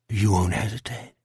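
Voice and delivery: lightly voiced quiet menace; a hint of a monster, pressing him; subdued sinister questioning; sinister creature. Creature presses Jack for promise.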